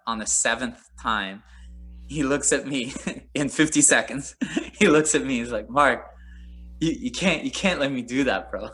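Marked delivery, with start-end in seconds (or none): 5.7-8.7 mock French accent GSP. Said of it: "with his French accent".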